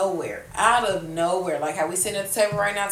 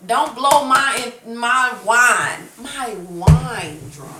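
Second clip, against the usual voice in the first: stern; 4 semitones higher, 8 dB louder, much slower than usual. Retold or imitated. Scolding mother, slow emphatic.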